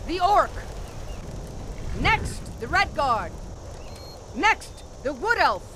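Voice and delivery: commanding call with a pause after the first word; firm, punched roll-call order; calling out prisoners. Acted. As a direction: summon the condemned like an officer. Captain calls prisoners to block.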